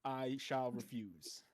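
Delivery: pompous guard. Acted. Pompous guard refusing slowly.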